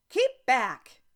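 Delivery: loud rough warning shout; rough cry. A narrator's reading. Hillside stranger warning travelers, a rough shout. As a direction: bark it out to stop them. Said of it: "heard a rough voice cry out".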